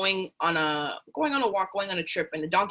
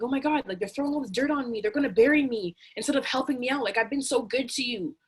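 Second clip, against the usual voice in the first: donkey crying; 4 semitones higher than usual. Acted. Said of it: "Donkey's crying".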